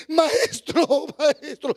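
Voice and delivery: mock-tearful cry to the teacher; imitated weeping. Preacher voices María pouring out her pain to Jesus, imitated weeping. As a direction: call out as if crying, acting her grief. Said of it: "Hay llanto".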